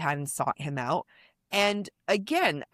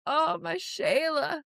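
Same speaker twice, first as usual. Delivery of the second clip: high, slow, shouted meme quote; 10 semitones higher, slower than usual. Retold or imitated. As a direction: wail it out like the meme. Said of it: "I just know".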